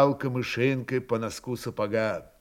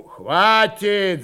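higher, moderately raised command; barked order; 6 semitones higher, 4 dB louder than usual. A narrator's reading. Senior officer stops two squabbling Cossacks, barking. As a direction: cut the quarrel off. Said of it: "зыкнул черноярец первый Исаул".

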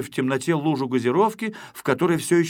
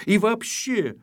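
suspicious questioning; 11 semitones higher than usual. Acted. Shpuntik questioning the intruder.

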